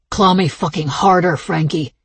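demanding. Acted. Lover demanding harder.

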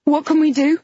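high, loud and frantic; holding back tears. A narrator's reading. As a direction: ask desperately, near tears. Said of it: "I was trying not to cry".

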